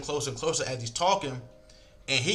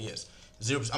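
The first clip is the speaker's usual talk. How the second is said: calm confident; 3 semitones lower, 5 dB quieter, faster than usual. Shown as a demonstration. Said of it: "confident, but I'm not loud".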